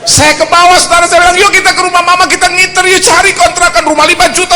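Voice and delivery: high, loud, driving sermon voice; loud impassioned preacher; full-force preaching. Acted. Preaching climax.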